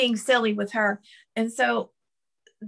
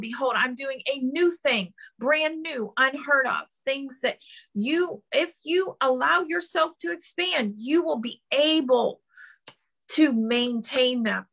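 rising preaching; 2 semitones higher than usual. Acted. Preacher voicing God's call to expand, rising fervor. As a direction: lift the promise up as it builds.

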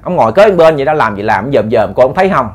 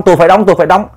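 higher, repeated mock protest; feigned insistence; 4 semitones higher, much faster than usual. Uncle puts on a show for the ghost, feigned insistence. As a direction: act determined, as if needing to be held back. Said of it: "Còn ông ba thì, thì làm bộ".

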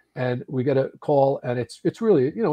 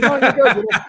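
reassuring; 10 semitones higher, 7 dB louder than usual. Retold or imitated. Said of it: "I said".

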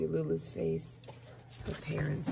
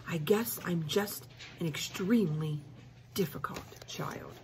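sly whisper. Acted. Child feigns innocence to parents.

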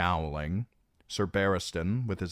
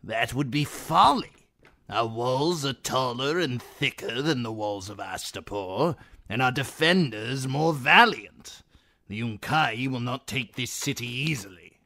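stern commander; 5 semitones higher, 4 dB louder than usual. Acted. Shave Pate argues.

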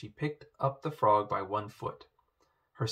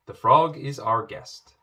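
firm rebuke; 3 semitones higher, 9 dB louder than usual. Acted. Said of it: "said the king".

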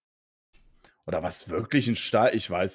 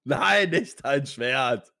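dismayed cry; 4 semitones higher, much slower than usual. Real, not acted. Dismayed at losing sword.

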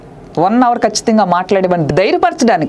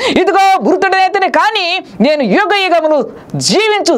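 fervent preaching; 7 semitones higher than usual. Acted. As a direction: preach the risen Lord with full fire. Preaching at full force.

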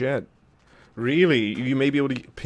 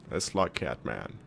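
much lower, slow mock he-man voice; deep manly voice; 10 semitones lower, 5 dB quieter than usual. Player mocking the crowd's demand to be manly, deep and slow. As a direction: drop way down like a parody tough guy. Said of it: "The crowd wants me to fight like a man".

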